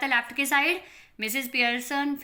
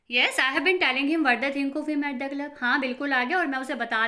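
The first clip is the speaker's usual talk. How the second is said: smug; 4 semitones higher, 4 dB louder than usual. Acted. Smug mother reports.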